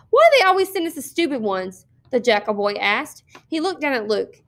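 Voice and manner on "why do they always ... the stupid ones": high-pitched opening, mildly scornful; exasperated complaint. A narrator's reading. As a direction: complain loftily, starting high and dropping. Bully complains about the newcomer.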